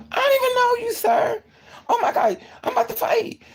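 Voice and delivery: high, loud, crying panic; panicked whimpering cry. Retold or imitated. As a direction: wail it like you're terrified. Panicked before a fight.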